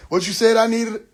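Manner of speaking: mock God voice. Voicing God on the phone.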